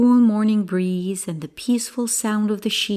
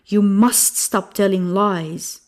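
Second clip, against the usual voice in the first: firm, mildly angry scolding; understated anger, pressing the point; 4 dB louder than usual. Acted. Angry villager scolding the boy, mildly angry. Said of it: "the villagers were angry".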